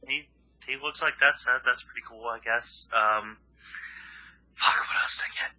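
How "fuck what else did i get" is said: whispering. Real, not acted. Muttering to self while thinking.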